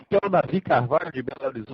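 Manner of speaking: repeating for a listener who missed it; to someone hard of hearing. Real, not acted. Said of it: "Pode repetir, por favor?".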